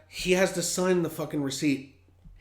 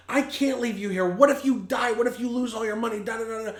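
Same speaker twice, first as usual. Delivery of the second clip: screaming; 7 semitones higher than usual. Retold or imitated. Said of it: "I start screaming at him".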